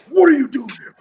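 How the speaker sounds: high, loud mock instructor yell; angry demand. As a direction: pounce on him like an instructor. Voicing an instructor cornering a trainee.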